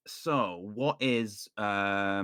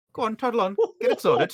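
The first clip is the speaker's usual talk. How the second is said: louder, higher brush-off; dismissive toddle on; 11 semitones higher, 8 dB louder than usual. Acted. Doctor dismissing the guard, loud and condescending. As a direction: shoo them away like a superior.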